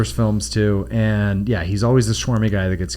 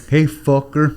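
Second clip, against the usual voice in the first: The Rock voice; 3 semitones higher, slower than usual. Retold or imitated. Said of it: "like The Rock".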